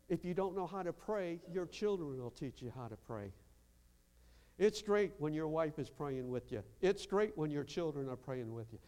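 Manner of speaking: usual speaking voice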